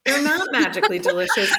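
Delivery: put-on quick, lightly accented Irish-American take; tossed off with a laugh in a mock family voice; mock Boston Kennedy voice; a hint of Boston Irish. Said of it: "Mary Kennedy of the Boston Kennedys".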